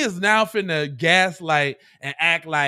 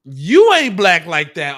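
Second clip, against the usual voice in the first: mocking repeat; 9 dB louder than usual. Repeating clip line mockingly.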